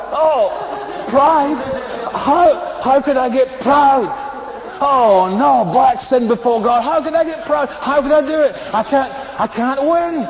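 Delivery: mock shock at being called proud; mock horror. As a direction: play the shocked believer, overdone. Believer mocked, horrified at pride.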